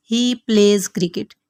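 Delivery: very slow, each word laid out for learners; slow model sentence. Shown as a demonstration. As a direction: dictate it word by word to the class. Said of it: "teacher models an English sentence".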